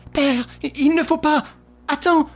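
high urgent cry. A narrator's reading. Daughter pleading with her father, crying out high. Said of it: "s'écria Suzanne".

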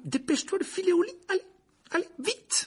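urgent, very high strained command; hissed order. A narrator's reading. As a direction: shoo the boy off in a tense panic. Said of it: "siffla-t-il à l'adresse de Harry". (ordre pressant, tendu et aigu)

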